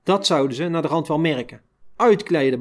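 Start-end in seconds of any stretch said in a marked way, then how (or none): 2.0-2.6 clipped falling command on "Uitkleden"; guard ordering a prisoner to strip; curt order. Retold or imitated. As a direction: bark "Uitkleden" as a flat order. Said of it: "beval Konijn".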